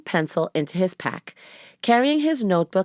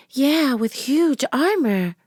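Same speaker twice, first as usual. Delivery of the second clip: put-on high, slow young girl; a playful little girl; 8 semitones higher, slower than usual. A narrator's reading. Narrator voices Annie.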